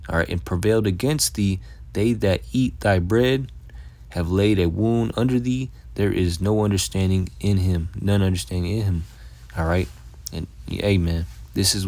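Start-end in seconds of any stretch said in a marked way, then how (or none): 0.3-7.9 raised, measured verse reading; scripture reading. Acted. Preacher reading Obadiah to his listeners, raised and measured. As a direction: read it out like the Bible is speaking.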